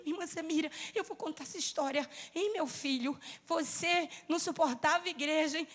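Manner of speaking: hushed retelling. Retold or imitated. Retelling mother's quiet words.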